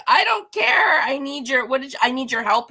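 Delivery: high, loud mock yell, easing off; hammed-up frantic protest; exasperated outburst. Acting out Uhura's exasperated outburst.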